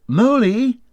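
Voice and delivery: loud, high call across the house. A narrator's reading. Rat calling for the missing mole, loud and high. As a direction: call for your friend through the rooms. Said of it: "Then he called".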